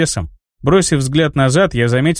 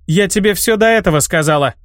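defiant snap; 5 semitones higher than usual. Acted. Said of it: "с вызовом рявкнула девушка".

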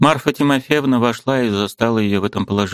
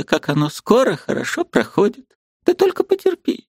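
put-on high, tender old woman's voice; comforting old aunt; 7 semitones higher than usual. A narrator's reading. Aunt Marfa comforting her niece, high and tender. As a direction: soothe the girl like a grandmother.

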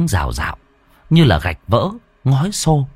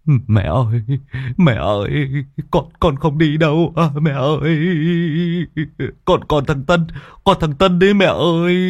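stammering, rising higher in panic; terrified pleading; 5 semitones higher than usual. Acted. Nghĩa begging his mother's ghost to spare him, stammering in panic. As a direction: beg for your life, tripping over words.

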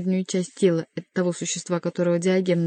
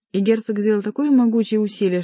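ordinary delivery, nothing marked

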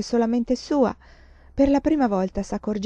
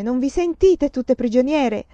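bitter outburst; 4 semitones higher, 4 dB louder than usual. Acted. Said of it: "volta alle compagne".

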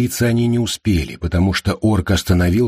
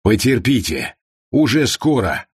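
warm. Acted. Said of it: "С неожиданной теплотой улыбнулся орк".

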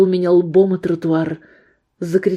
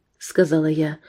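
usual speaking voice

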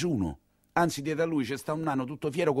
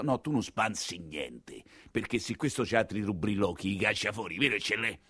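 low cold reply; 6 semitones lower, 8 dB quieter than usual. Acted. Father calms the boy.

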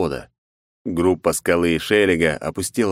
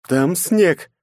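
grumbled; 10 semitones higher, 3 dB louder than usual. Acted. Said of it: "буркнула в ответ Найт".

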